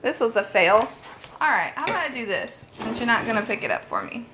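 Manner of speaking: talking with arms full, muffled; words slightly muffled by an armful. Real, not acted. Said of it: "sorry if I sound a little bit muffled".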